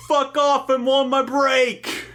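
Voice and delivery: high, drawn-out brush-off; irritated yell. Acted. Dave telling Jerry to leave him alone, irritated yell. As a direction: yell it high and stretch out the ending.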